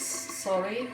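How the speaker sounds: normal talking voice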